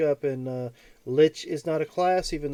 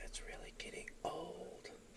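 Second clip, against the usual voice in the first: whispered, barely voiced, faint dying rattle; 3 semitones higher, 22 dB quieter than usual. Knocked unconscious by a shock again, the character speaks, Smedley's dying whisper. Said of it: "in her death whisper".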